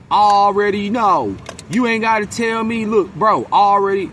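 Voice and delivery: high, loud mock of a chatty coworker; coworker's filler talk. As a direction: parody his empty filler, stretched out.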